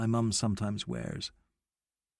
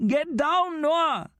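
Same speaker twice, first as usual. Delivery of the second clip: much higher sharp command; urgent call; much slower than usual. A narrator's reading. Abdi ordering Noah off the fence, much higher.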